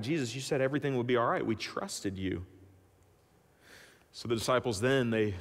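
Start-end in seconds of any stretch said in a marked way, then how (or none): 0.0-2.4 lower, softer, fading into dismay; hurt disbelief. Acted. Disciples telling Jesus they trusted him, soft and hurt. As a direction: let the betrayal sink in quietly. Disciples stunned by Lazarus' death.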